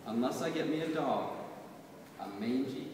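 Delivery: measured, rhythmic poetry reading; poem recitation. Acted. Poet reading her poem to an audience, measured recitation. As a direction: read it like a poet at a reading, savoring each line.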